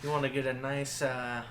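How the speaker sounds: quiet menacing mob voice; threatening gangster. Acted. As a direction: lean in with a soft threat. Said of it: "It's so threatening".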